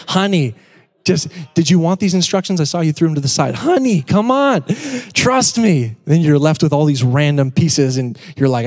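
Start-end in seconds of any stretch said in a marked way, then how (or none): 0.1-6.0 high, whiny husband waving off his wife; husband refusing the instructions, high and defensive. Pretend. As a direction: play the stubborn husband, pitch up. Husband assembling furniture, defensive.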